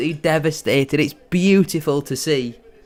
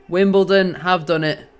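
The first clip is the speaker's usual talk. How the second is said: excited call; 4 semitones higher, 4 dB louder than usual. Real, not acted. Celebrating promotion live.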